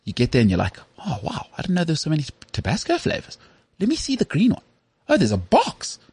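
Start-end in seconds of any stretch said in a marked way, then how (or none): 1.0-6.0 high, wide-eyed shopper; excited. Retold or imitated. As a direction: gush over the shelves like a kid. Acting out browsing hot sauces.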